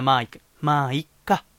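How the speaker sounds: flat, lifeless delivery; emotionless. Shown as a demonstration. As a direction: say it with no feeling at all. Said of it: "無機質な".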